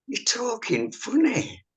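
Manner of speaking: high, slow retold insistence; insistent mum. Mum contradicting her evacuee child, insistent. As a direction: draw it out, pitched well up.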